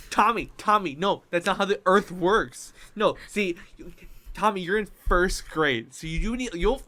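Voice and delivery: mock argument with a child; firm, insistent scolding, played for laughs; exasperated correcting. Adult arguing with first grader Tommy, exasperated.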